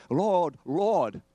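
high, loud mock plea to the Lord; crying out. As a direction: call out like a fervent believer. Acting out people crying to Jesus.

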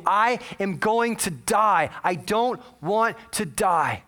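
imitating a caller pleading for life; retold desperate crying. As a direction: wail it word by word, without real sobs. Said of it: "She is crying uncontrollably".

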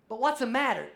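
insistent mock patient asking what's wrong; mock pleading patient. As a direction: push back like a worried patient.

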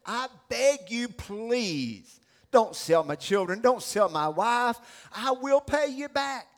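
emphatic, impassioned plea; begging. Acted. Debtor on his knees before the king, begging. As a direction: beg hard for your family. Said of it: "falls to his knees with tears streaming".

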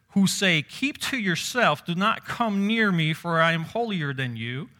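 mock self-righteous. Preacher mimicking proud hypocrites to his congregation, haughty mock. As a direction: sneer it like a smug hypocrite.

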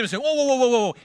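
high, hammed-up whoa whoa to settle a crowd; a preacher voicing the spies holding back the crowd; calming whoa. Spy calming the scared crowd, a high mock whoa. Caleb and Joshua calm the people.

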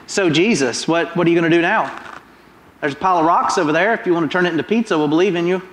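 quick mocking dares tossed at Jesus; goading taunt. Preacher voicing the crowd goading Jesus, fast mocking taunts. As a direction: needle him, fast and cheeky. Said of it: "they're goading Jesus".

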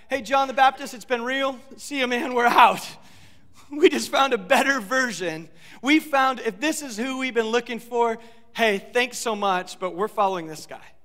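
loud, casual buddy voice; playful disciples leaving. Acted. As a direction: wave John off cheerfully, like leaving a party. Disciples say goodbye to John.

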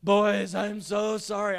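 put-on loud, high, tearful plea to the boys; a hammed-up sobbing apology, drawn out; father breaking down in tears, begging his boys' pardon; retold crying apology. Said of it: "and start crying".

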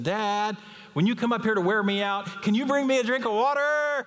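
put-on boy asking dad cheekily for water; cheeky little boy. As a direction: push it sweetly, won't take no. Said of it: "He said".

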